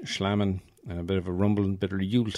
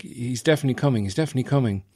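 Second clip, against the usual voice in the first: put-on 1 eager kid; 3 semitones higher, much faster than usual. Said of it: "And he's like".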